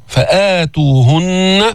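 فآتوهن slow, long aa after the hamza; two-count madd. Shown as a demonstration. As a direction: chant فآتوهن with the opening vowel held two beats. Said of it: "حركتين".

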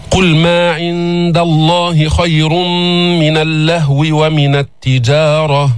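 slow chanted Quran recitation. Acted. Teacher recites the verse for the class, chanted slowly. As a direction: intone the verse slowly, tajwid style.

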